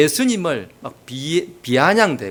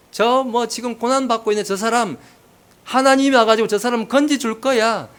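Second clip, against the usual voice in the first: higher-pitched imitation of a sneering unbeliever; jeering, lightly acted; mock taunting; 6 semitones higher than usual. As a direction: act out a scoffer needling the sufferer. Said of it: "비아냥대는 거예요".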